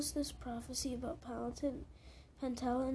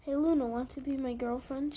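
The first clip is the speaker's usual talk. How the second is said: teasing quote; 8 dB louder than usual. Retold or imitated. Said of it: "my exact words were".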